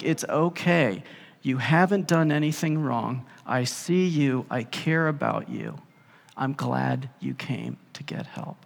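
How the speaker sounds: Jesus reassuring the woman who touched him. Acted. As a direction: gently comfort her.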